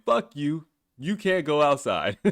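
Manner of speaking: slow, emphatic mock order; mock defiant proclamation. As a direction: voice the world's blunt dismissal, amused. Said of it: "the whole world saying".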